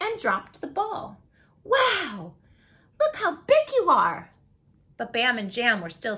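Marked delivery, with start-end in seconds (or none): 1.6-4.3 high, loud, thrilled little-dog voice; excited tiny dog. Acted. Tiny dog greets the big dogs, thrilled and high. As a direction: squeal it out like a tiny excited pup.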